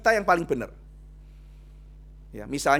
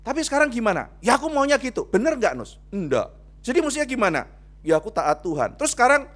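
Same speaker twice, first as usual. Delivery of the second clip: pressing dialogue; 4 semitones higher, 5 dB louder than usual. Acted. Quick back-and-forth with Jonah.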